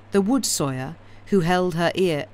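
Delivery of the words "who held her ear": stumbling misreading; misread line. Real, not acted. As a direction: slip on the words. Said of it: "who, sorry, who held her in the respect".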